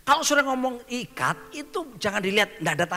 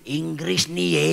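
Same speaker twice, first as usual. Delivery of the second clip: mocking demon; 2 semitones lower, 4 dB louder, slower than usual. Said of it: "tahu dia ngomong gini".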